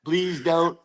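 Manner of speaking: high, laughing begging voice; laughing mock plea. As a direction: beg the coach through laughter. Imagined sign pleading.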